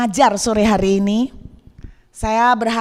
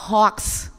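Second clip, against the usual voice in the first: laughing; 3 semitones lower than usual. Real, not acted. Laughing at the punchline.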